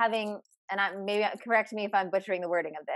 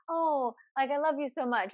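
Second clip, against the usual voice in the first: imitating gushing fiance; 5 semitones higher than usual. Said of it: "He has to be like".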